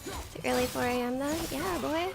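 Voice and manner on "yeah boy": light cowboy twang; a hint of a cowboy holler. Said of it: "Why did I say that like a cowboy?".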